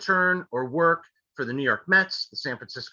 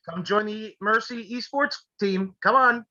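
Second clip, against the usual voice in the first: excited pitch; 7 semitones higher than usual. Real, not acted. Cheering the winner toward the esports team.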